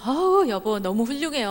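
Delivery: lightly hammed admiration; admiring praise. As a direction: cheer on the husband with a thumbs up. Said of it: "엄지손을 이러면서".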